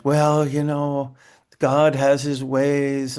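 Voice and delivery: slow, drawn-out pious comfort; lightly mock a preachy consoler; a hint of a sanctimonious visitor; preachy platitude. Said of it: "religious people trying to be religious".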